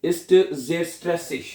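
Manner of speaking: each word drawn out slowly; slow dictation. Shown as a demonstration. Teacher dictating the sentence ending slowly. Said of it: "क्या मेरी जो रोज़मर्रा ज़िंदगी है".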